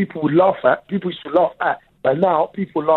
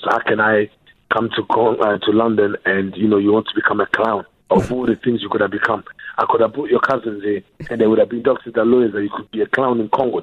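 upset dad; 7 semitones lower than usual. Retold or imitated. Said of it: "his whole thing was".

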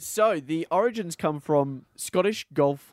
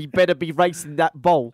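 put-on English accent; 2 semitones higher, 7 dB louder than usual. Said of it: "he's English now".

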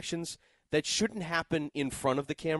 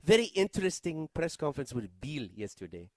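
put-on German accent. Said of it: "is that your German accent?".

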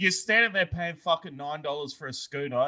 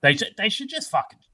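put-on higher gruff old man rant; old father voice; 6 semitones higher than usual. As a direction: imitate an angry old dad. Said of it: "my old man's sitting there going".

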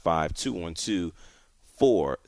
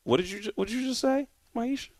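incredulous; 3 dB quieter, faster than usual. Real, not acted. Host incredulous at caller's twist.

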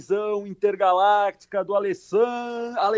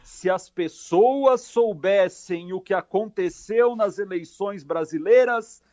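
alien quote read out; 4 dB louder than usual. Acted. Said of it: "Abre aspas".

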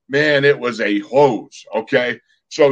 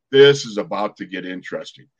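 lower, deliberate inner thought; low wry self-talk; 7 semitones lower than usual. Retold or imitated. Player thinking to himself before the snap, low wry self-talk. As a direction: say it low, bracing for trouble. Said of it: "I think to myself".

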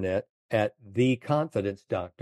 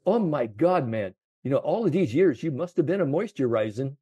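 friendly caddy; 5 semitones higher than usual. Retold or imitated. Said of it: "the way he said it".

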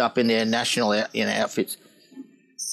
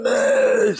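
high, louder retold shout; calling out; 9 semitones higher, 4 dB louder than usual. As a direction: shout it out to clear the way. Calling out to crowd in water.

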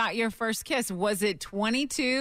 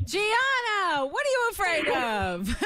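playful teasing; 6 semitones higher, slower than usual. Real, not acted. Host teasing caller playfully.

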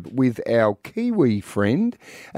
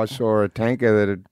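lower, broad Aussie impression; lightly voiced Australian action hero; a hint of a gruff Aussie road warrior; Mel Gibson; 3 semitones lower than usual. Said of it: "like Mel Gibson in Mad Max".

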